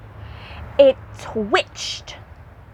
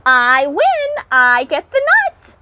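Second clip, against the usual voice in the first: higher, louder, gleeful win; delighted; 4 semitones higher, 4 dB louder than usual. Acted. Hedgehog to the others, crowing with delight. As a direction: crow about winning the nut.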